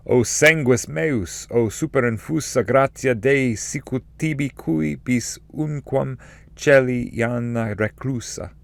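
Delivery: an ancestor's spirit hailing his descendant, high and unhurried; solemn spirit's greeting. Acted. Spirit greets Dante in Latin.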